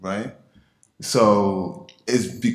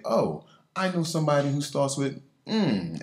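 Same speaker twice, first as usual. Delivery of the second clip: higher, light mock patient voice; imitating a patient; 6 semitones higher than usual. Doctor imitating patients guessing her name, lightly mocking. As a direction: play the eager patient who thinks he knows. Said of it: "they'll probably say".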